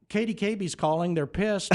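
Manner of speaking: high-pitched mock scolding; angry boss. Station owner scolding his intern the next morning, indignant. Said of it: "chewed my ass".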